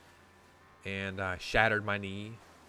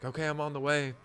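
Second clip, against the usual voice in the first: changed tone; 5 semitones higher than usual. Retold or imitated. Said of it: "tone in her voice change".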